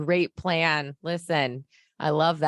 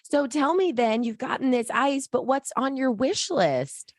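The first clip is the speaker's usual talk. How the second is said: chirpy interviewer; 5 semitones higher than usual. Acted. Host interviewing character Harry.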